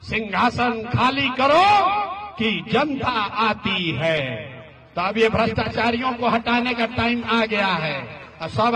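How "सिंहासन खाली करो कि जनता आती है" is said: slow, weighty recitation of Dinkar's verse; recited poem line. Shown as a demonstration. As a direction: let the famous verse land slowly. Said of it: "Dinkar ने कहा".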